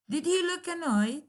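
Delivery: "Did he look annoyed?" high, with he pushed hard; emphatic stress. Shown as a demonstration. Teacher models emphatic stress on operator and subject. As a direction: lean on he, sure of the answer. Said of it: "operator and subject usually receive emphatic stress".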